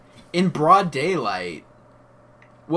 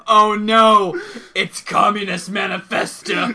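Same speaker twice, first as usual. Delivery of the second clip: mock alarm; 5 semitones higher, 5 dB louder, slower than usual. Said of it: "And then be like".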